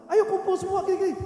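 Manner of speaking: loud, high call to gather people; acted-out urgent summons; retold rallying call.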